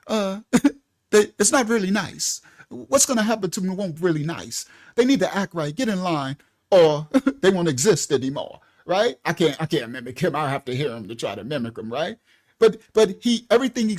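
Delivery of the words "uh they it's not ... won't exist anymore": lightly voiced imitation, slightly raised, chuckling through it; breezy, half-laughing threat in a loose impression; mock calm threat. Vlogger mocking the leader's casual warning, mild laughing imitation. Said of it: "I know he don't sound like that".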